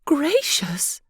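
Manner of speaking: a breathless whispered gracious; wife whispers in amazement; whispered gasp. Acted. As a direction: hush it out in awe. Wife's hushed reaction.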